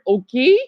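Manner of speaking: "okay" said as /oʊki/ with a rise; Portuguese word "okay" rising. Shown as a demonstration. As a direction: say "okay" ending in an ee sound. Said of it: "I love that word".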